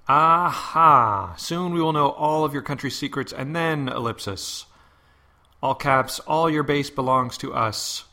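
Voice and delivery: gloating villain, slow and menacing; mad scientist. Pretend. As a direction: read it like a cartoon villain taking over. Reading villain comment aloud.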